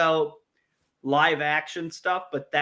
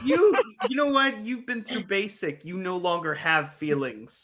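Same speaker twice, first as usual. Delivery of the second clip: harsh drill sergeant; 3 semitones higher than usual. Pretend. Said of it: "Was that too harsh?".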